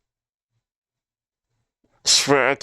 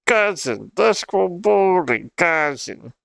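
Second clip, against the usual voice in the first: mock Toronto accent, a bit higher and slow; imitating Toronto slang; 4 semitones higher, slower than usual. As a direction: drawl out cousin like a Toronto kid. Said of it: "Why do they sound like that?".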